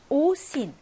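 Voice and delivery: 오신 with the first vowel stressed as o. Shown as a demonstration. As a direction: lean on 오 in 오신. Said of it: "강세 있고요".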